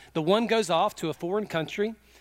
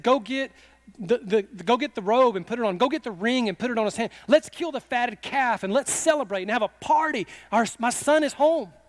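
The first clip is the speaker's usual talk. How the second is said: higher, rejoicing proclamation; overjoyed father; 4 semitones higher than usual. Acted. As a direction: call for a feast in rising excitement. Overjoyed father orders celebration for son.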